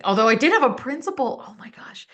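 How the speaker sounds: breathy confiding whisper; whispered aside. Real, not acted. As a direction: lean in and whisper the gossip. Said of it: "whispered aside".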